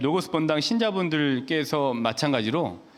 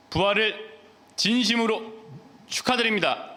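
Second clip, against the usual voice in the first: raised, high-pitched congratulation in separate beats; heartfelt proclamation; 7 semitones higher than usual. Real, not acted. Priest congratulating parishioners on Easter, proclaiming it emphatically.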